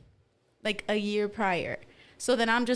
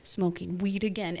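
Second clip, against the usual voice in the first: lower, slowing mock vow; solemn vow; 4 semitones lower than usual. Niece vowing after her freak-out, solemn.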